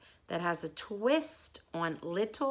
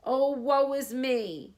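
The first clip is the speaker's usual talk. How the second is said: higher, louder, slow mock lament; hammed-up lion woe; 6 semitones higher, 5 dB louder, slower than usual. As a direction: wail it like a trapped lion. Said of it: "thrashing about hopelessly".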